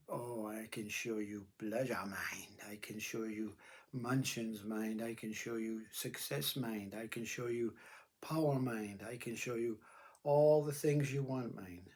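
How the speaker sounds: slow, whispered temptation; seductive tempter. Acted. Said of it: "confronted by this".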